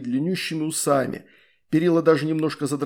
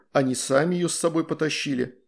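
plain reading voice

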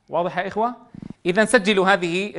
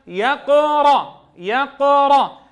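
slow, higher chanted "يقرأ"; recited blended word; 6 semitones higher, 4 dB louder, much slower than usual. Shown as a demonstration. Teacher showing what the syllables form, chanted reading. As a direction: stretch "يقرأ" in a measured recitation. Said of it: "شو صار معنا؟".

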